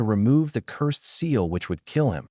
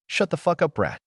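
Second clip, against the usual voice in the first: a higher, hammed-up shout with the emphasis on brat; angry shout; 7 semitones higher than usual. A narrator's reading. Tayuya yelling at Naruto to shut up, a mock shout. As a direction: snap it at him, half-shouted. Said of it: "Tayuya shouted".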